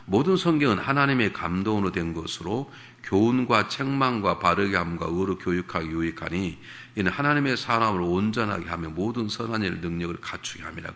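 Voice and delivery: steady, formal reading of the verse; scripture reading. Acted. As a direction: read it out like holy text. Reads scripture passage aloud.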